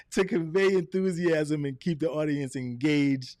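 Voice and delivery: slow, lively read with a laugh; enthusiastic retake. Shown as a demonstration. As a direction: show off vocal inflection. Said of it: "let's do it again".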